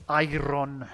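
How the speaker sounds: iron sounded out as spelt, "eye-ron"; idiot's mispronunciation. Shown as a demonstration. Streamer botching a game word on purpose, mispronounced iron. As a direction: say iron slowly with a full R-O-N. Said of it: "Should I say iron? Like a, like a, like an idiot".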